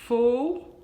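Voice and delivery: "Folclore" in three long, separated beats, fol-clo-re; "Folclore" sounded out very slowly with pauses between syllables. Shown as a demonstration. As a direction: stretch and split "Folclore", leaning hard on the first syllable. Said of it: "quantas sílabas tem na palavra folclore".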